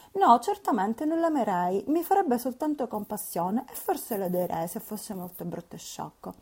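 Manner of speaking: put-on scornful girl; Catherine indignant.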